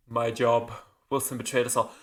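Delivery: imitated cool, deadpan reply; unmoved, matter-of-fact answer to an outraged question; cold. Miranda answers Jacob about shooting Wilson, cold. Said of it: "The delivery is so cold".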